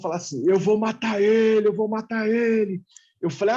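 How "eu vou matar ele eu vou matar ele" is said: mock menacing chant, lightly put on; possessed brother. Brother under a spirit threatening to kill, lightly imitated possessed voice. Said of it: "meu irmão tá com um negócio falando grosso".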